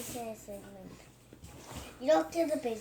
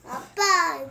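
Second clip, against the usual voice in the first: calling out; 4 semitones higher, 9 dB louder than usual. Real, not acted. Child insisting for attention.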